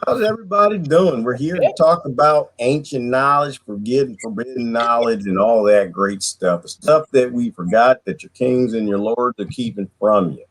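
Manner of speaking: a hint of a Texas accent. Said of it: "That's my best Texas accent".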